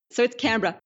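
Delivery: "Canberra" said CAN-bra, short and swallowed; Aussie Canberra. Shown as a demonstration. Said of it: "They got funny pronunciations for stuff".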